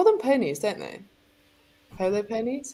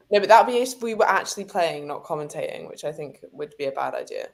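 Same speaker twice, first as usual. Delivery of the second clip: ordinary talk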